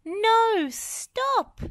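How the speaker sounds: high, loud urgent cry; alarmed yell. A narrator's reading. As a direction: shout a warning to stop her. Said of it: "yelled Wendy".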